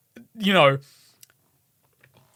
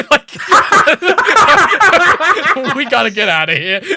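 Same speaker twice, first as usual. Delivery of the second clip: quick, louder words through laughter; laughing; 9 semitones higher, 8 dB louder, faster than usual. Real, not acted. Retelling a game escape to a friend, laughing hard. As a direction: crack up while getting the line out.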